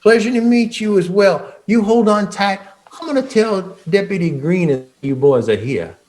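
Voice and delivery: high, eager little clerk voice. Acted. Clerk answering the players, high and eager. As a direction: squeak it out like a keen desk clerk.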